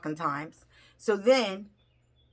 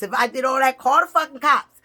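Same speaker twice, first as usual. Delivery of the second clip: louder angry repeat; 3 semitones higher, 7 dB louder than usual. Retold or imitated.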